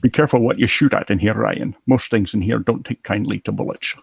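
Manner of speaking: lightly voiced Scottish film-star impression; a touch of Connery's Scottish accent; Sean Connery. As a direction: deliver it like a Connery movie line. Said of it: "Dueling Connerys".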